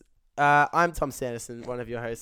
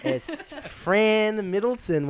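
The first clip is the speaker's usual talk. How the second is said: announcer voice; 6 semitones higher, much slower than usual. Acted. Grand guest introduction.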